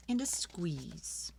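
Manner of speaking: unvoiced, slow whisper of the title. A narrator's reading. Storyteller whispering the title to children. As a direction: breathe the words out slowly.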